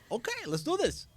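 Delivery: high, upbeat go-ahead; rally the group with energy; pumped up. Retold or imitated. Retelling going along with chat.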